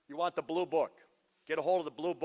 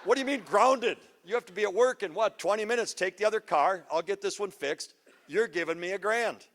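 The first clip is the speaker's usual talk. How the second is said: raised voice, dad arguing with son; retold heated argument; 3 semitones higher, 3 dB louder than usual. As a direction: play the exasperated father, a notch louder.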